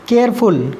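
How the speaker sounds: केयरफुल split into two beats, केयर and फुल; two syllables. Shown as a demonstration. Teacher counting syllables, केयरफुल in two separate beats. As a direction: break केयरफुल after केयर. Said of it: "दो बार में बोला है".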